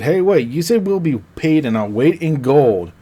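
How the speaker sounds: lightly voiced complaint with rising pitch; protesting sister. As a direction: act out a sister objecting to the deal. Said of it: "the one sister said".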